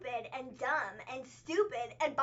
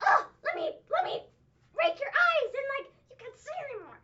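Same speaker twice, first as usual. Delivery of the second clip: much higher, louder mock snarl while clawing; hammed-up Lana attack; 10 semitones higher, 6 dB louder than usual. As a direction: play it as a cartoonish catfight threat, high and loud. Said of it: "needed to get my imitation of it".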